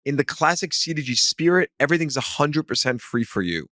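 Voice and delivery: upbeat podcast ad read; promo read. Real, not acted. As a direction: read it as a friendly plug with lifted phrase openings. Reads a promo for listeners.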